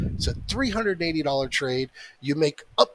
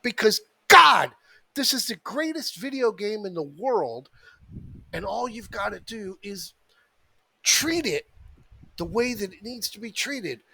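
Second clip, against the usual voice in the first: exasperated, higher-pitched rant; 5 semitones higher than usual. Real, not acted. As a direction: vent at stubborn traders. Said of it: "I apologize for the rant".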